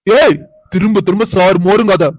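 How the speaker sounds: irritated outburst, opening sharply on the first word; angry scolding. Acted. Man fed up with being called sir, angry scolding. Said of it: "கத்தாம பேசுங்க".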